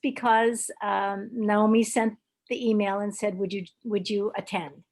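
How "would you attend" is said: ordinary talk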